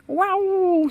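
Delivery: high, loud cry of wonder; amazed exclamation. Acted. Cousins marvel at the valley below, loud amazed wow. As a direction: gasp it out in awe at the view. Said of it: "s'exclament en chœur".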